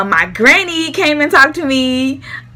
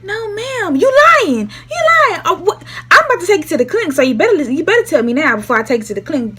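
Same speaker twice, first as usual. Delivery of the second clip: pitched-up, fast threatening mom; 7 semitones higher, faster than usual. Retold or imitated. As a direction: call out the lie like a fed-up mother. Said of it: "And I'm like".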